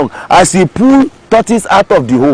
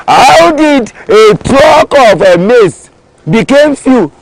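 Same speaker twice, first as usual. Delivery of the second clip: demanding question; 3 semitones higher, slower than usual. Acted. Farmer questioning worker about theft.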